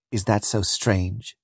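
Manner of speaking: slow, soft bitterness; bitter. Acted. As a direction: answer quietly, with weary bitterness. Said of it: "said she bitterly".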